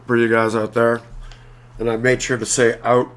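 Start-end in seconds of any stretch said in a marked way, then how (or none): 2.8-3.1 out said as a Canadian "oot"; Canadian-accented out with a rounded vowel. Shown as a demonstration. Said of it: "in a very Canadian accent".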